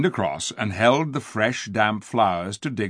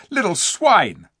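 contemptuous; 7 semitones higher, 5 dB louder, slower than usual. Acted. Eustace insults dwarfs.

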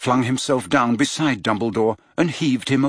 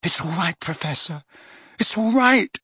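loud reassurance; 6 semitones higher than usual. A narrator's reading. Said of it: "said Harry loudly".

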